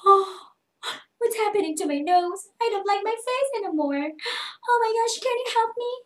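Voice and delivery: high hammed-up alarm at own face; mock distress. Shown as a demonstration. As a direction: whine for help, overacted. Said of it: "Yung mga ganong bagay". (OA na takot sa mukha)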